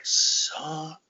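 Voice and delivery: drawn-out, whispered curse of realization; slow disbelieving whisper. Retold or imitated. Fighter realizing the promoter cheated him, slow stunned whisper. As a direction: whisper it word by word, very slowly. Stunned reaction to the handed-over money.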